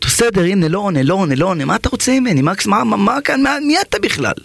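bewildered outburst. Acted. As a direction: demand who this stranger is. Angry man, confused and exasperated.

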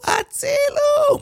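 high, drawn-out cry of help; woman screaming for help. Acted. Panicked woman screams for help at the crash. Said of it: "וצועקת".

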